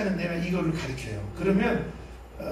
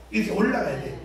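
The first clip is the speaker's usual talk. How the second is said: ordinary talk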